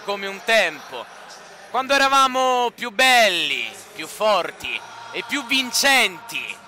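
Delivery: slow, dramatic documentary-style voiceover; slow intro narration. Acted. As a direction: lay it out slowly like a season opener. Slow intro narration over music.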